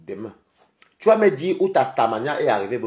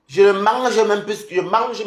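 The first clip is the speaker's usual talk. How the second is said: slow, higher, louder taunt; loud boast; 7 semitones higher, 5 dB louder, slower than usual. Real, not acted. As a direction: lean hard on every word to crush her. Boasting at a rival on stream.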